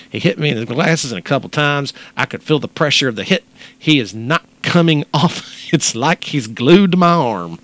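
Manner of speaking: a lightly put-on Texan telling an ordeal; Texas accent. Host quoting the attacked woman, Texas accent. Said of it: "in your best Texas accent".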